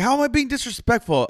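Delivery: very high, incredulous mock protest; retold indignant protest. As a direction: imitate a friend squeaking in disbelief. Retelling friend's protest at warning.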